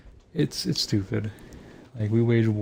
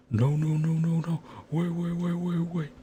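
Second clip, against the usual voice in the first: higher, pleading no no wait wait, lightly acted; Punisher scene quote; 7 semitones higher than usual. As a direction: beg him to wait, half-joking. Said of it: "fucking referencing The Punisher".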